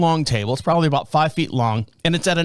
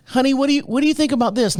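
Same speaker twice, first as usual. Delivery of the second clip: wife; 8 semitones higher, faster than usual. Retold or imitated. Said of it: "and she's like".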